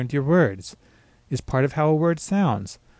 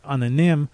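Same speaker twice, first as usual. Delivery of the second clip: "nim" stressed as the final part of the word. Shown as a demonstration. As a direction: put the weight on "nim". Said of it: "the stress on the final part".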